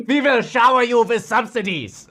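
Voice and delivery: put-on an overblown Chinese accent that slides into angry German; mock Chinese accent. Streamer voices China promising subsidies in a mock accent. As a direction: announce the offer grandly in a mock accent. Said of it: "my Chinese accent is angry German".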